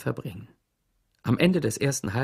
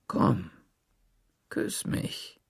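low come-on; 4 semitones lower, 5 dB quieter, much slower than usual. A narrator's reading. Sheriff pressing teacher for a kiss.

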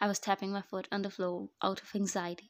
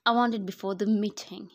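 yelling; 6 dB louder than usual. Acted. Boss yelling.

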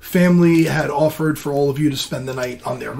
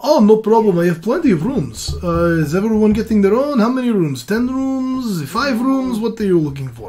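lightly voiced friendly innkeeper, upbeat; a hint of a chatty barkeep offering rooms; 4 semitones higher than usual. GM voicing the innkeeper to the party, lightly friendly.

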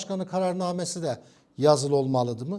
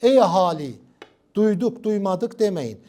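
loud crier calling to the public; town crier; 6 dB louder than usual. Retold or imitated. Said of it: "Davul vardı".

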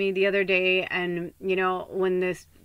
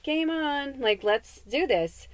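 game on; 6 semitones higher, slower than usual. Retold or imitated. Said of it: "Wayne's World".

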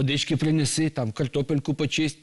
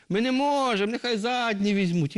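much higher honking goose reply; 11 semitones higher than usual. Acted. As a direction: answer like hurried geese. Geese answer Telesyk.

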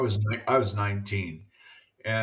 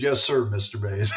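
chuckling out the polite reply; laughing as he retells calling him mister; laughing through it; 3 semitones lower, 4 dB louder than usual. Retold or imitated. Retelling meeting Willie Mays.

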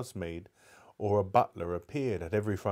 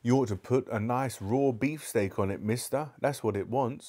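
put-on cheeky butcher's boy; 3 semitones higher than usual. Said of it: "said a butcher's boy".

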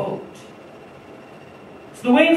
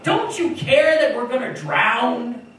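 shouting; 3 semitones higher, 4 dB louder, slower than usual. Retold or imitated. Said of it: "So the disciples shouted".

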